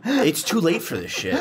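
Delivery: words broken by a laugh. Real, not acted. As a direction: laugh through the line. Late-night banter, laughing.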